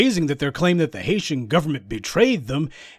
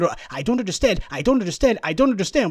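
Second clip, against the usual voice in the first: mock feigned confusion; 4 semitones higher, faster than usual. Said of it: "just keep saying that".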